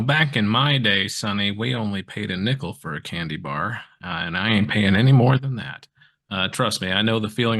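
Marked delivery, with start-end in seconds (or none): 0.0-5.9 lightly voiced grumpy old-timer; man doing granny voice. Old-timer grumbling about prices.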